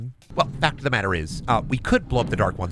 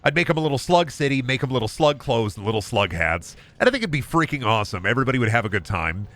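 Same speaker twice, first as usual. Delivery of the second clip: funny answer. Pretend. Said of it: "The funny answer would be like".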